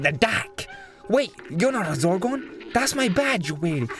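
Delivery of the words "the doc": "dak" said with an open American a, like dock; American accent. Shown as a demonstration. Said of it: "what the Americans like to call it".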